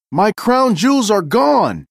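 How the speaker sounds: high, loud cry of shock as the Queen. Acted. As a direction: she finds the case empty and cries out. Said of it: "cried the Queen".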